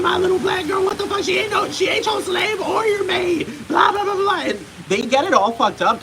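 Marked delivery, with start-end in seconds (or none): 0.0-0.8 the phrase shrieked high in mock horror; high, loud, offended caricature; mock outraged American. 0.8-4.4 shrieking high mock outrage, much higher and louder; high, loud, offended caricature; mock outraged American.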